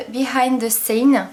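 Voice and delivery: English name said with an English accent. Real, not acted. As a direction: switch to English sounds for Behind the Stain. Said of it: "Désolée pour l'accent anglais".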